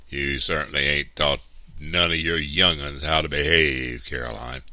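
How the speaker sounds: curt, loud rebuke; stern, cutting reproof. A narrator's reading. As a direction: scold curtly and firmly. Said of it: "he said curtly".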